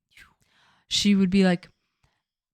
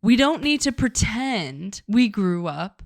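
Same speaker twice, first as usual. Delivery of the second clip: mock scolding; 4 semitones higher, slower than usual. Calling her out in mock lecture.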